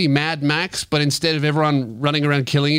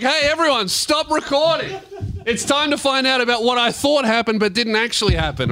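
mocking imitation; 7 semitones higher than usual. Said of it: "you're like".

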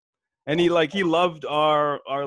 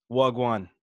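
London slang. Shown as a demonstration. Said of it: "Here's your first one".

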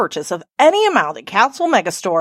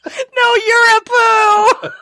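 laughing; 10 semitones higher, much slower than usual. Real, not acted. Laughing retort, teary.

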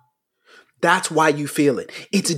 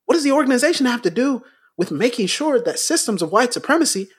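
mocking repetition; 2 semitones higher, faster than usual. Mocking repeated deflecting question.

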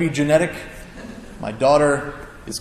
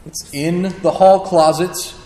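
calmly; 3 semitones higher, 4 dB louder, slower than usual. Retold or imitated. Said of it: "she says calmly".

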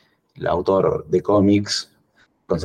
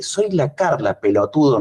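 Carla enojada; 6 semitones higher than usual. Retold or imitated. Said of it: "la cara de la loca".

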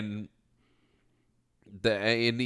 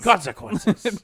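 ominous drawn-out word; 8 semitones higher, 4 dB louder, slower than usual. Retold or imitated. Dramatic ending of duel.

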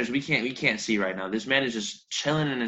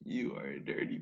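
whispering; 9 semitones lower, 14 dB quieter than usual. Real, not acted. Whispered tease at friend.

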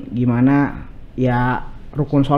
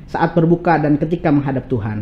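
pantun recital; 3 semitones higher than usual. Acted. Guest shares a Betawi pantun about fasting, pantun recital. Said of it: "Ada pantunnya begini".

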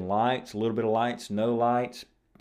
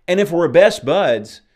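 louder and slower on best; emphatic; 8 semitones higher, 12 dB louder than usual. Real, not acted. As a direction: lean hard on best, drawn out. Repeats best buds louder.

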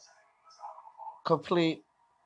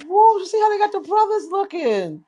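high amazed exclamation, pitched way up; amazed whoa; 12 semitones higher than usual. Real, not acted. Viewer amazed at brothers on screen, high whoa. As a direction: gasp in wonder at the screen.

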